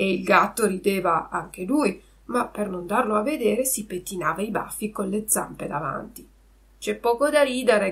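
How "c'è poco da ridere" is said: offended, indignant, affronted shout. Shouting at two others who are laughing at him, offended shout. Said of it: "gridò Pinocchio impermalito".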